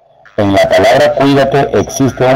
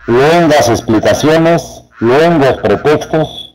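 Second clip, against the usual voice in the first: slow example phrases; 4 semitones higher, slower than usual. Shown as a demonstration. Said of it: "Alguna idea de lo que significa luengo".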